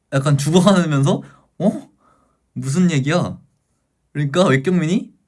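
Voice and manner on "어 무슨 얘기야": mock startled double-take; startled question. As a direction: imitate someone taken aback. Character startled by sudden news.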